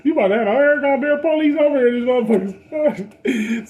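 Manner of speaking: rising disbelief that turns into a loud rant; hyped-up homies. Retold or imitated. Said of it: "everybody looking at me like".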